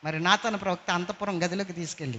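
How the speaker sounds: usual speaking voice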